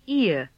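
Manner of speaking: "ear" as ee gliding into uh; vowel combination. Shown as a demonstration. Teacher introduces a vowel combination, gliding "ear". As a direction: glide through both vowels of "ear". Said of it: "It is a combination of E and E".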